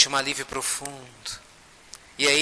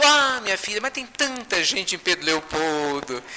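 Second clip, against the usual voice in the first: high "Ah", falling into slower protest; playful protest; 4 semitones higher than usual. Retold or imitated. Chico answering the spirit's hint, playful protest. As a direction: protest from a high start, easing down slowly.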